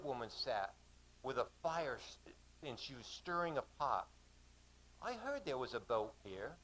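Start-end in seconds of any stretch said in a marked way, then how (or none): 5.0-6.6 put-on woman's line in an Australian accent; lightly acted Australian speaker; Aussie accent. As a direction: voice her with Aussie vowels. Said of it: "she said in an Aussie accent".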